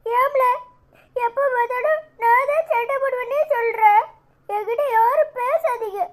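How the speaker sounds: high, whiny crying child, acted; acted tearful sulk; tearful protest. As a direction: protest through mock tears as a hurt child. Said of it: "அழாதப்பா".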